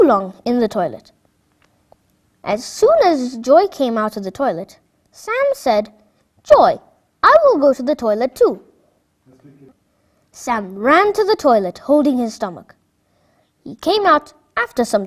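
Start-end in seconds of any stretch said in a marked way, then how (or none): 6.4-8.6 urgent. Acted. Boy urgently needs toilet.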